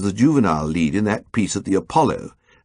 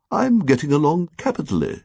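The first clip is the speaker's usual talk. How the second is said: odd precise; 7 semitones higher than usual. A narrator's reading. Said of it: "in that odd, precise way".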